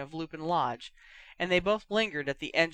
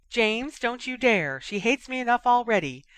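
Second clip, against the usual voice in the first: much higher, louder pleading voice; very high pitch; 7 semitones higher, 6 dB louder than usual. Acted. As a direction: mimic Lily high and shrill-voiced... pleading. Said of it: "Sirius said in a high voice".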